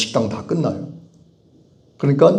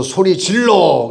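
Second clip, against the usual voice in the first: raised, hyped-up call to scream; imitated concert yell; 7 semitones higher, 4 dB louder, slower than usual. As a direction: mimic fans yelling at a gig. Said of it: "젊은 애들이 가수가 오면".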